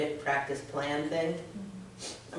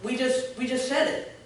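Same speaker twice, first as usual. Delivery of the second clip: emphatic; 6 semitones higher, 4 dB louder, slower than usual. Real, not acted. Stressing the point of the practice.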